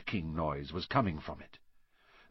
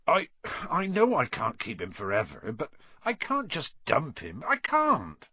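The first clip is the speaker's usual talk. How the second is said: lightly voiced gamekeeper, pleading, rising much higher on the last words; hint of a big man close to tears; upset Hagrid; 5 semitones higher than usual.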